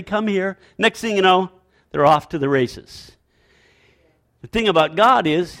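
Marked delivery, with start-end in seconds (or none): 0.0-0.6 lightly voiced God, an understated call; soft-edged, restrained summons. God calling toddler-like people, understated call. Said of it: "God would say".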